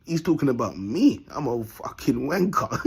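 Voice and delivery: slow confessing viewer, laughing at the end; a viewer owning up, slowed down; imagined viewer. Retold or imitated. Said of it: "they're gonna look at this video and say".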